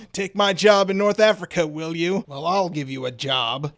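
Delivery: lightly put-on American accent; a hint of a mock-American rival; grudge-bearing general in a mild American accent. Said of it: "giving Claude here a American accent".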